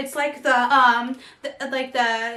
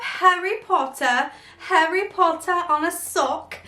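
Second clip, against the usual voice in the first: put-on British accent; 3 semitones higher than usual. Vlogger excited at her Harry Potter socks, put-on British accent. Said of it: "doing this accent".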